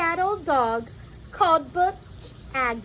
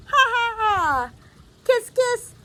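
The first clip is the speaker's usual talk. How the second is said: high, loud party chatter; celebratory yelling; 7 semitones higher, 6 dB louder than usual. Acted. Family greeting granny on her ninetieth, excited yelling. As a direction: cheer the birthday guest with gusto. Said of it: "they're yelling".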